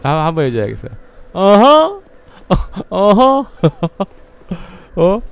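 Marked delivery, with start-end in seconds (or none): 1.3-5.2 sharp high surprised huh; a startled questioning grunt. Real, not acted. Surprised at an enemy.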